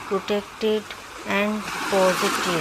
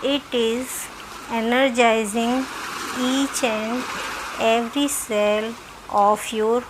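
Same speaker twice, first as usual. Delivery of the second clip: measured meditation voice with long pauses; guided meditation. Acted. Doctor leading listeners through self-healing meditation, measured guiding voice. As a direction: guide them in short, spaced-out phrases.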